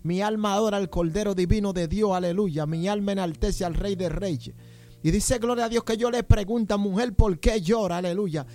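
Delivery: urgent exhortation to the congregation; fervent preaching. Real, not acted. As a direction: preach with force, punctuating phrases with praise. Preaches at full force to congregation.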